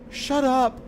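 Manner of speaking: furious high yell; angry shout. Acted. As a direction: snap it at her, furious. Angry outburst at Kemi.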